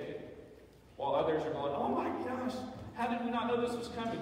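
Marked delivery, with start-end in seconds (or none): 1.7-4.2 higher, alarmed cry of a caught-out student; higher-pitched oh my gosh, shocked; mock panic. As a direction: play the student who just realised the test is tomorrow. Mock panicked student before final.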